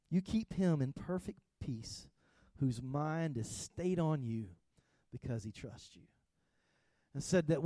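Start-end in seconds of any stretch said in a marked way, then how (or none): 0.1-6.0 slow soft reread. Shown as a demonstration. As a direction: read "You keep him in perfect peace" again slower and softer, fading out on "because he trusts you". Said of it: "It says".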